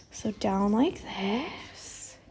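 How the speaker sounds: breathless and quiet, slow; short of breath while stitching. Real, not acted. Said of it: "I'm, like, out of breath".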